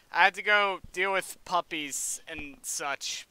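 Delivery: ordinary talk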